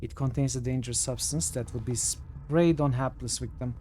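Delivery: measured storyteller reading aloud; game text narration. A narrator's reading. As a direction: read it out evenly, each phrase falling at the end.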